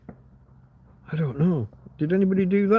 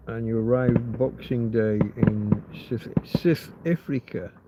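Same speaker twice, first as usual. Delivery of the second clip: put-on South African accent; 4 semitones lower than usual. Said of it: "if I do my best impression".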